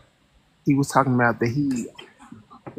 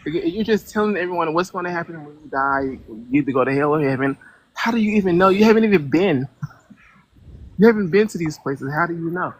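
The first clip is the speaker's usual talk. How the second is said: exasperated challenge; 3 semitones higher than usual. Retold or imitated. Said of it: "And I'm like".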